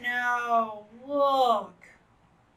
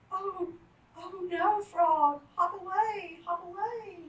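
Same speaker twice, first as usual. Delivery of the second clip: high pleading urge to flee; urgent warning; 9 semitones higher than usual. Acted. Narrator urges frog to escape, high urgent. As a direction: hurry the frog along.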